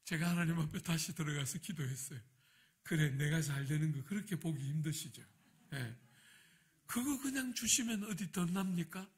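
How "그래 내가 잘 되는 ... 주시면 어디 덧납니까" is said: remonstrate with God, building in pitch; bitter prayer. Retold or imitated. Pastor protesting the wrecked car to God, bitter. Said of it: "또 비통하게 기도했어요".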